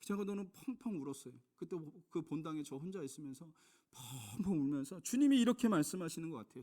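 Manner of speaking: usual speaking voice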